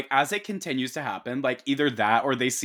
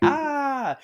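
high-pitched short "ah" of alarm; mock scream. Retelling a man grabbed under the snow, mock scream.

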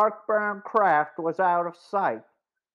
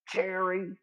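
softer, urgent hiss of a name; 7 dB quieter than usual. Acted. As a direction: hiss it so the men won't hear. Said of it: "Joe hissed".

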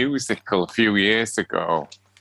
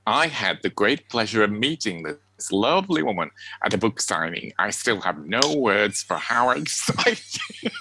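attempted American accent. Podcaster reading a listener's message to co-host, attempted American accent. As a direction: read it in an amateur American accent, slowing at the end. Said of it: "What the devil was that".

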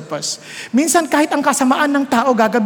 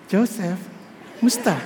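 flirty wife; 3 semitones lower, 7 dB quieter than usual. Acted. Voicing the flirting boss's wife.

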